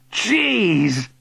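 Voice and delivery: high, awed exclamation; astonished gasp. A narrator's reading. Billy sees uncle flying, astonished. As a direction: gasp it out in amazement. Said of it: "Billy gasped".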